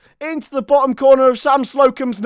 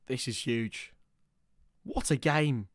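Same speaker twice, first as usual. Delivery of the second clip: whispered, much softer, almost no voice; hushed whisper; 11 semitones lower, 14 dB quieter than usual. Real, not acted. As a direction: lean into the mic and breathe it. Tense late moment.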